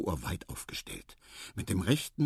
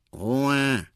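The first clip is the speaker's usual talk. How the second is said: loud, higher, drawn-out call; 5 semitones higher, 6 dB louder than usual. A narrator's reading. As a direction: call out to silence the noise. Marabou complains about the noise. (laut Ruhe fordern)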